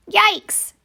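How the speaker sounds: high startled yelp; sudden shriek of surprise. Acted. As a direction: jump with surprise at the burrow. Startled on finding burrow.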